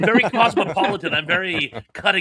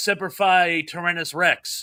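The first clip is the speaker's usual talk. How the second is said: usual speaking voice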